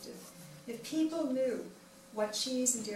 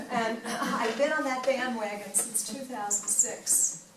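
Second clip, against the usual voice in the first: laughing; 5 dB louder, slower than usual. Real, not acted. Still laughing after the joke.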